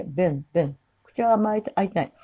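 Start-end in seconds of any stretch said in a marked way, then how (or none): 0.0-0.7 "been" short and lax, like "ben"; throat-only vowel. Shown as a demonstration. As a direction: make "been" in the throat, lips relaxed. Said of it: "喉だけ". (「been」を喉だけで短く)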